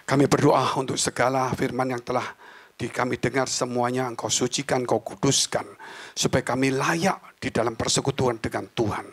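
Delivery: earnest congregational prayer; public prayer. Real, not acted. Pastor prays over the word just heard, earnest prayer. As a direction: lead the congregation in solemn prayer.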